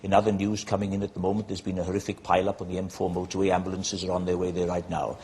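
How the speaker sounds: newsreader with a light Welsh lilt; a hint of a Welsh radio newsreader; Anthony Hopkins Welsh newsreader. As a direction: read the bulletin in a soft Welsh accent. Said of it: "give it more of a sort of Anthony Hopkins".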